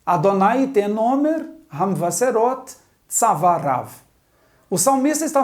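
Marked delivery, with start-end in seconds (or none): 0.0-3.9 more fluent, connected Hebrew reading; leitura corrida. Shown as a demonstration. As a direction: read the verse through smoothly, linking the words. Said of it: "Vamos à leitura?". (leitura fluente, palavras ligadas)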